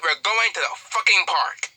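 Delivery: high, slow incredulous question; can't believe what you just heard; shocked disbelief. Acted. Shocked reaction to Deku.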